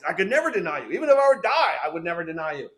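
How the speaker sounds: lightly acted insistent disciple; Peter's vow. Peter answers the Lord's warning of denial, insistent vow. Peter vowing loyalty to Jesus.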